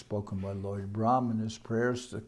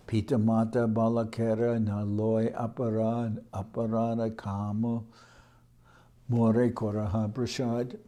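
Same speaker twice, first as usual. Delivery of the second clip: verse recitation. Acted.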